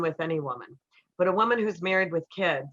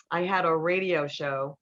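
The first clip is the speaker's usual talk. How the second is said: ordinary talk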